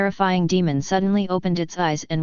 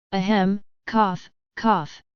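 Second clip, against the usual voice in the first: weak cough; slower than usual. Acted. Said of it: "Creel coughed weakly".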